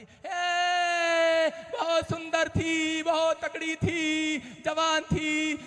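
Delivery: hammed-up mourning wail, high and drawn out; a showy sing-song lament put on for the neighbours; mock wailing. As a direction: fake keening over the dead woman. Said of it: "अरे, रो रही।".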